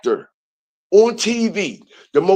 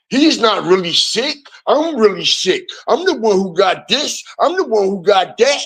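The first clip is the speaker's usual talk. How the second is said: higher, whiny mock of Meech's letter; 3 semitones higher than usual. Mocking Meech's letter to the warden, lightly whiny. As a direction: lightly mimic a whiny snitch begging for release. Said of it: "snitch on him and say".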